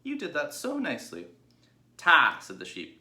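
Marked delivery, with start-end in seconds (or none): 0.0-1.3 much higher, louder piglet voice; a sweet, well-mannered little pig; polite young pig. Acted. Babe's voice. 2.0-2.4 higher, louder doting ewes; fond sheep crying out. Acted.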